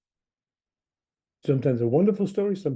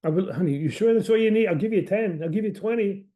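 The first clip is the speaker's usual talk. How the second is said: eager offer; 5 semitones higher, 4 dB louder than usual. Retold or imitated. Patient voicing herself offering more.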